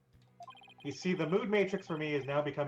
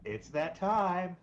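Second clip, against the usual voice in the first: dramatic announcer line; 4 semitones higher, 4 dB louder, much slower than usual. Retold or imitated.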